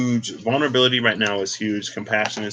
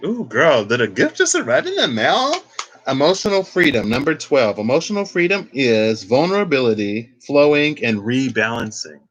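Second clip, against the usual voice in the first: delighted; 4 semitones higher, 4 dB louder than usual. Real, not acted. Tarot card pulled, delighted.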